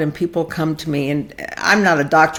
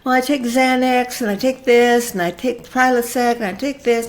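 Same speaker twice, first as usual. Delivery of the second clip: higher mocking voice rattling off pills; higher, lightly mocking patient voice; mock patient listing pills; 5 semitones higher than usual. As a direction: rattle them off like a patient reading a prescription list. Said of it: "And they start listing this stuff".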